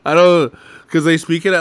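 laughing disbelief. Real, not acted.

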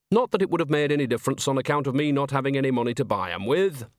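lightly voiced countrywoman character, grumbling; a hint of folksy grumbling; Nanny, mildly grumbling. Nanny complaining to Granny about having no money, mildly grumbling.

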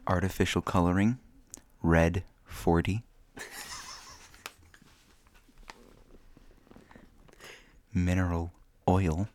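put-on creepy old man voice. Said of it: "creepy old man voice".

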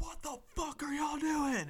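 high, slow furious coach bellow; imitating a livid coach yelling in the locker room; angry coach yell. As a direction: roar at the team like the livid coach.

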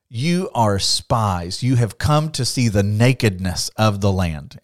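very slow, weighty accusation; accusing Joseph. Retold or imitated. Joseph charging his brothers as spies, slow and heavy. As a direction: lay the charge down slowly like a ruler.

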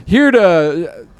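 slow, drawn-out hint of a stadium announcer; mock announcer. Mock announcer introducing the first dunk, slow and drawn out. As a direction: announce it slowly, lightly hammed-up.

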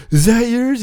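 high, loud mock question. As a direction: ask it in a squeaky put-on voice. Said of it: "and he's like".

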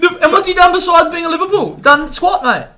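high, loud, mocking scorn; scornful disbelief. Real, not acted. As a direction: scoff at him loudly. Dismissing Salah.

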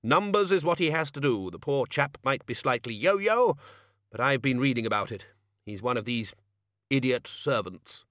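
put-on a touch of bluff old wizard; lightly voiced Ridcully. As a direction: explain it in a lightly hearty character voice.

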